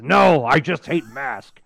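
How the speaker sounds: slow, lightly put-on villain voice; a touch of a cartoon villain grumble; Miles Mayhem impression. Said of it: "bad impersonations of Miles Mayhem".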